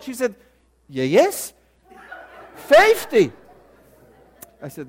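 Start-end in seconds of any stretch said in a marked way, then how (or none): 0.9-3.3 loud, emphatic Southern "FAY-fty"; mock Southern bank lady confirming loudly; Southern dialect. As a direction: exclaim it in imitated Southern, high on "fifty". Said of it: "understand the Southern dialect".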